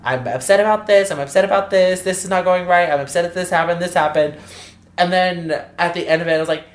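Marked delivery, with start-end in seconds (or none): 0.0-4.4 higher-pitched list of complaints; mildly worked-up retelling; retold tearful venting. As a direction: replay an upset vent, easing down. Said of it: "I was tearing up as I was saying it".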